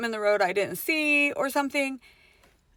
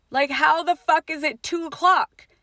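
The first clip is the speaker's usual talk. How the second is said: louder, higher baffled outburst; bewildered, raised-voice question; incredulous; 6 semitones higher, 5 dB louder than usual. Retold or imitated. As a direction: demand it in loud disbelief. Acts out disbelief at the clock.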